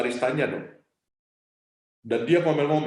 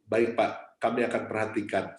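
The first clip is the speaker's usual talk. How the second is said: smiling calm reply; 4 semitones lower than usual. Retold or imitated. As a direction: say it gently through a smile. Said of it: "Sambil senyum loh".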